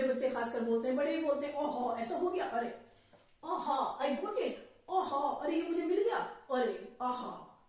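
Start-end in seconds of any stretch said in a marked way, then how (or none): 1.5-7.6 a glad aha on finding it; delighted discovery. Shown as a demonstration. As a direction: sound pleased you found it. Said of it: "इस तरह से".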